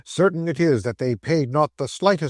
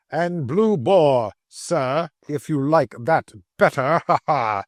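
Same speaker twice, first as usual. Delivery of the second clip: jeering; slower than usual. Acted. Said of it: "jocose insult".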